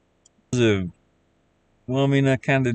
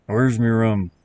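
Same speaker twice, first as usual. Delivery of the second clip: lightly voiced pirate captain; a hint of the tipsy pirate asking for rum; Jack Sparrow; 4 dB louder, slower than usual. Joking for viewers as the pirate, lightly voiced. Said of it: "then sometimes I sound like him".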